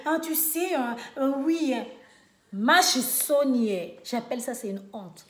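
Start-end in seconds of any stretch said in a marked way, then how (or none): 0.1-1.8 mock white French accent, hesitating on euhs; imitated white French accent. Mocking the one who rolls their eyes, imitated white French accent. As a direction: put on an affected French accent. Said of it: "seulement de l'accent des, des, des Blancs".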